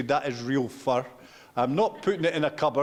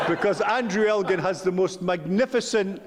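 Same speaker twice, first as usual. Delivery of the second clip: laughing; 4 semitones higher than usual. Real, not acted. Laughing while praising the Earl.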